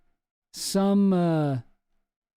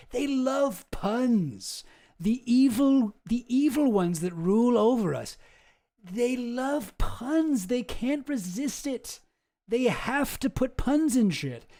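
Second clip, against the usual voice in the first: mock ominous; 6 semitones higher, slower than usual. Mocking conspiracy belief.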